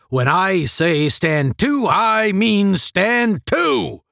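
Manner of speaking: shouted command, rising high and loud; roared. A narrator's reading. Drill supervisor roaring at a slouching cadet, loud shout. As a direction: bark it at the recruit. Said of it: "he roared".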